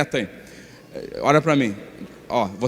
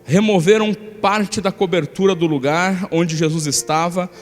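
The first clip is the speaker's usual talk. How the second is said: scripture reading. Acted. Pastor reading Mark two aloud, in a steady scripture reading. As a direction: read the passage out to the church. Reads the Gospel passage.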